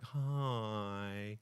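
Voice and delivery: lightly imitated wife's drawn-out hello; a hint of the wife's greeting. Husband imitates his wife saying hello, lightly voiced wife. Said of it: "sometimes imitate my wife".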